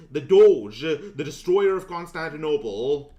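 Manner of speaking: hammed-up herald's cry; grand announcement. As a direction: announce the dog like a conquering hero. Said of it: "grand title for his dog".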